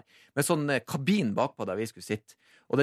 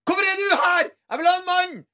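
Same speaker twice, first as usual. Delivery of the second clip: much higher, louder mock yell; mock shout; 7 dB louder than usual. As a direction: shout it out in hammed-up outrage. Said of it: "hvis jeg hadde ropt ut sånn her". (overspilt rop, høyt og lyst)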